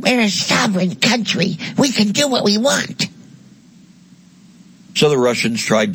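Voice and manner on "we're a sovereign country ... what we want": mock defiant Ukraine. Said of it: "Ukraine said".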